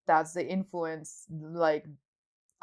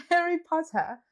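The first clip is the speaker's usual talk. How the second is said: laughing; 9 semitones higher, 4 dB louder than usual. Real, not acted. Laughs saying Harry Potter.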